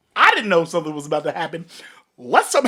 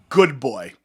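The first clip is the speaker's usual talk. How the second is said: put-on condescending good boy; 3 semitones lower than usual.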